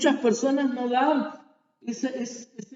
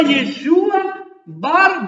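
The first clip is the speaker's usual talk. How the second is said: Aramaic cry; 4 semitones higher, much slower than usual. Retold or imitated. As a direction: call out "Yeshua Bar" stretched long. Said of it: "Él gritaba". (el ciego grita "Yeshua Bar" muy lento)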